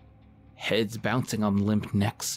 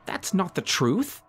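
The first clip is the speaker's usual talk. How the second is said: higher, slow, spat retort; 10 semitones higher than usual. Acted. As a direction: spit the denial back at him. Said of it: "I spat".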